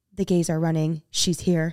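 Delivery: low muttering under the breath. Retelling what another speaker said as people ran past: imitating saying it under the breath. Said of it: "under your breath".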